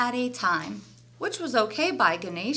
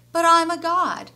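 loud, higher-pitched protest; boastful protest; 7 semitones higher, 7 dB louder than usual. A narrator's reading. Ganesha brushes off his friend's warning, loud protest. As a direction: protest proudly, raised voice.

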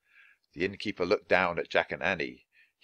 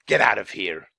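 louder innkeeper yell; 5 dB louder than usual. A narrator's reading. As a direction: shout them off the doorstep. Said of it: "Mister Pinch yelled after them".

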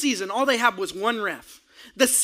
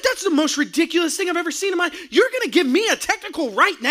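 outraged protest; 6 semitones higher than usual. Retold or imitated. Outraged at technical foul.

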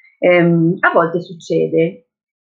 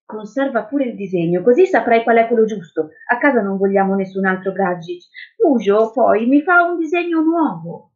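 lightly voiced girl, lifting higher at the end; earnest child; 4 semitones higher than usual. Girl leaves the drawing with the policeman, earnest.

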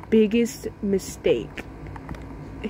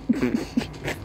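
soft laugh; 10 semitones lower, 7 dB quieter than usual. Retold or imitated. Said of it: "I was like".

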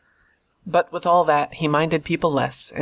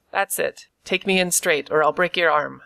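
sneering threat. Acted. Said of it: "he sneered".

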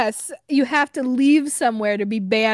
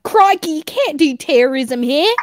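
half-shouted, higher-pitched mock outrage; mock shouted scolding; 5 semitones higher than usual. Retelling to friends how they shouted at them, mock scolding. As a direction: scold in a lightly raised, higher voice. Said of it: "they were shouting at me and being like".

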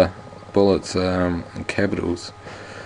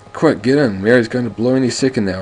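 louder call from the helicopter; shouting over noise; 4 semitones higher, 4 dB louder than usual. Acted. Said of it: "Owen Carter shouts from the helicopter".

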